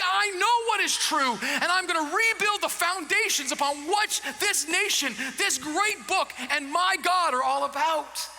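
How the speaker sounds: rising, forceful stand; defiant declaration. Retold or imitated. Lone believer defying the crowd, forceful and defiant. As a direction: declare it like a line in the sand.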